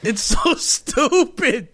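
slow laughing disbelief. Real, not acted. Friends mocking an anime scene, laughing. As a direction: laugh through how dumb it is.

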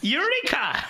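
loud, high laughing eureka; mock eureka. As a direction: shout it like a triumphant discovery. Mock triumphant exclamation.

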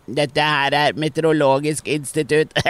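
slow, nose-held announcer voice; mock nasal weather-service voice; pinched nose. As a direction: hold your nose and announce it. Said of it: "tar hun seg for nesen".

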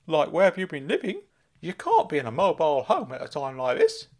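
high, loud eager uncle; Uncle Claude calling out. Acted. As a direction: squeal his name like a giddy fussing uncle. Uncle Claude voiced by narrator.

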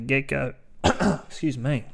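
coughing, throat caught on a sip; struggling through a swallow gone wrong; choking on a drink. Real, not acted. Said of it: "Choking on this one".

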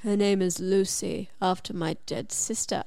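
low, soft seductive farmer; sexy farmer voice. Retold or imitated. Farmer telling her his dog's name, lightly voiced low and seductive. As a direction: purr it low like a romance hero, a hint of sexy. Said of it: "You said that so sexily".

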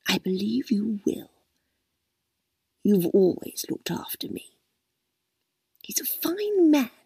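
a hint of a sleepy old woman murmuring; drowsy old lady. A narrator's reading. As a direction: drift off contentedly.

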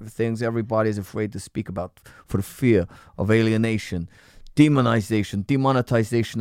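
a light put-on American accent. Shown as a demonstration. Reading a listener's comment in a light American accent. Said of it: "I'm gonna do this in an American accent".

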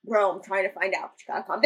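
low, unbothered retold reply; laid-back telling-off; chill, imitated. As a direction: play the calm friend, voice dropped. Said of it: "Nick is so chill in this moment".

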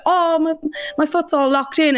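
high mock whine; lightly put-on fretful voice; imitating Ruthie. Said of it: "when she's like".

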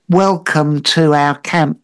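slow, simplified pidgin delivery; pidgin English. Acted. Monkey host welcomes visitor to camp, slow pidgin English. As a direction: space the words out slowly, as if signing. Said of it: "bit of pidgin English".

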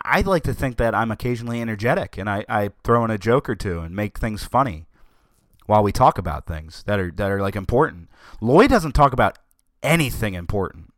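ordinary talk, nothing marked

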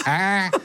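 comic moan in the uncontrolled real voice; mock pleasure moan. Man demonstrating his bedroom noises to a friend, mock moan. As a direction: moan as if caught unawares. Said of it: "les bruits de jouissance".

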